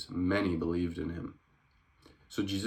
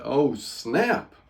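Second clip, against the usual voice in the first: gleeful oh snap; 6 semitones higher, 6 dB louder than usual. Real, not acted. Reacting to Jesus' retort.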